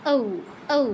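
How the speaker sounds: ঔ said with lips spread to the sides. Shown as a demonstration. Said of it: "দুই পাশে যেন প্রসারিত হয়".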